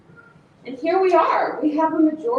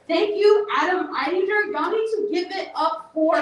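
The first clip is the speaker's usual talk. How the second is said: rallying applause; 2 semitones higher than usual. Real, not acted. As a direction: whip the room into applause. Calls for applause at an event.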